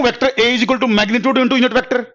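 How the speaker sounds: the whole formula drawn out very slowly; slow dictation. Shown as a demonstration. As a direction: dictate it slowly as you write. (फ़ॉर्मूला लिखते हुए बहुत धीरे बोलना)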